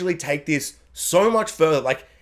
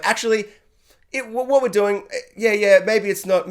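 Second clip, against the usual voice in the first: mock justifying; 5 semitones higher than usual. Acts out characters justifying themselves.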